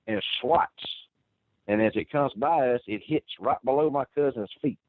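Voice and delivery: ordinary talk, nothing marked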